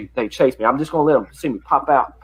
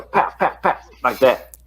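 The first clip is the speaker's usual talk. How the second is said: cap gun pops; slower than usual. Shown as a demonstration. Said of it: "makes a noise like a gun".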